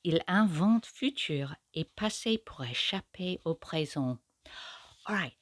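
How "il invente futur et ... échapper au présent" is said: English speaker reading French verse; French accent. Acted. Reviewer showing viewers the French sound of the line, in a French accent. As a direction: read it in schoolgirl French, letting the sounds ring. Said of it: "Get this in French instead".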